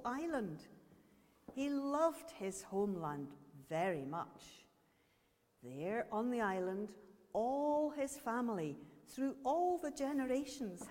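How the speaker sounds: put-on slow, measured storytelling for children; story narration. A narrator's reading. Speaker tells children a story called Letting Go, measured storytelling. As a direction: tell the tale with lengthened key words.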